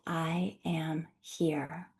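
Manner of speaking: slow, breathy whisper to yourself; very slow whispered self-affirmation. Shown as a demonstration. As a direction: whisper it slowly, like a secret promise. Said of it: "simply say to yourself".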